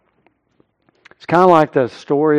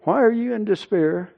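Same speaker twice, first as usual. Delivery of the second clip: stern self-questioning; 7 semitones higher, 4 dB quieter than usual. Acted. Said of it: "Takes himself by the scruff of the neck".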